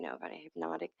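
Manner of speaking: a light taste of hypnotic calm; hypnotherapy voice. Shown as a demonstration. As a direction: slip briefly into a soothing trance voice. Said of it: "that's my hypnotherapy voice".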